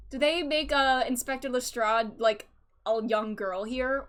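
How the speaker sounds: ordinary talk, nothing marked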